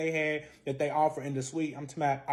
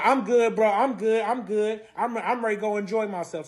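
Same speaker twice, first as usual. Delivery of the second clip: higher, insistent brush-off; mock insistence, pitched up a little; retold brush-off; 4 semitones higher than usual. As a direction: imitate him waving you off. Retold brush-off during quarrel.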